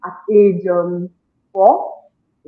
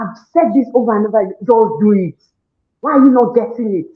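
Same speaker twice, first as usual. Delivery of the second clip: raised, impatient parent's voice; exasperated scolding; 3 semitones higher than usual. Retold or imitated. Mother to children over homework, exasperated.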